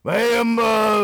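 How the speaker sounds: high cartoon pony voice. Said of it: "my My Little Pony voice".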